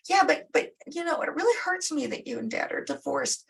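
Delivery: high whiny excuse; whiny teenager. Retold or imitated. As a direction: whine it like a teen dodging a chore. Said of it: "you got the whiny teenager".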